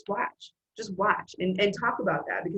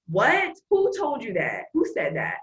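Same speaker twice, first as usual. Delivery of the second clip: indignant challenge; 2 semitones higher, 3 dB louder, slower than usual. Acted. Coach confronting someone's negative self-talk, indignant challenge. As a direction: challenge it in disbelief.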